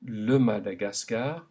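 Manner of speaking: le Madagascar with open French a in every syllable; French vowel A. Shown as a demonstration. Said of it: "repeat one last time".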